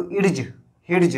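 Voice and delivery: इर्ज, हिर्ज with the silent D wrongly sounded before the j; wrong pronunciation. Shown as a demonstration. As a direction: mispronounce इर्ज, हिर्ज by voicing a separate D. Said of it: "ऐसे नहीं पढ़ेंगे".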